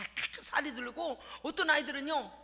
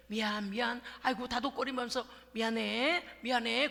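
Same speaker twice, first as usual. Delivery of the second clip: soothing parent; 3 semitones lower than usual. Retold or imitated. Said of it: "그러면서 이제".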